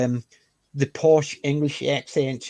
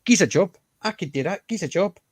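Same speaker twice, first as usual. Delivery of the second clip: put-on a touch of a Liverpool accent, raised a bit; light Scouse imitation, pitched up; Yosser Hughes; 4 semitones higher than usual. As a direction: quote the desperate Liverpool character lightly. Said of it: "Eosa Hughes".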